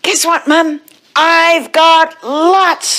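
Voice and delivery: high, eager little-cat voice, stretched out; excited child. Acted. Splat telling Mum his news, high and excited. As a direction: share big news in a high, drawn-out voice.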